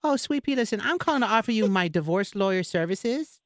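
high-pitched put-on lawyer voice; silly high prank-call character; Nacho Chavez, chirpy prank caller. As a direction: pitch it way up as a phony divorce lawyer.

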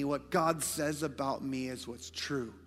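ordinary talk

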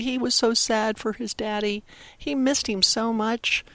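usual speaking voice

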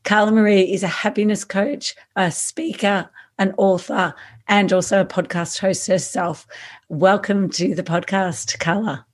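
hoarse, croaky throat; talking through a croaky voice. Real, not acted. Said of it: "excuse my croaky voice during the interview".

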